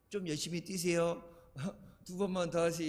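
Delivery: polite, gentle coaching request; 정중한 말투. Acted. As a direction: ask athletes nicely, with a small laugh. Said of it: "얘기 안 하잖아". (운동선수에게 정중하게 부탁하는 말투)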